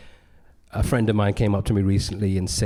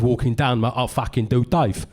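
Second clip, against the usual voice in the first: mimicked rough white-guy accent; Dave; 2 semitones higher than usual. Comic performing a character walking down, put-on British accent. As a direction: lay on a guy's everyday British accent. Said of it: "a guy called Dave who spoke like that".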